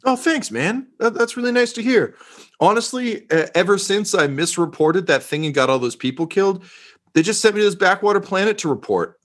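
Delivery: gush, then stumble through a confession; flattered reporter. Acted. Disgraced reporter thanking an officer for validation, high and grateful.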